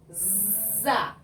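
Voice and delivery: "Za" with a long buzzing z; som de Z. Shown as a demonstration. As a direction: hold the z before the vowel in "Za". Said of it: "Olha o som". ("Za" com Z prolongado)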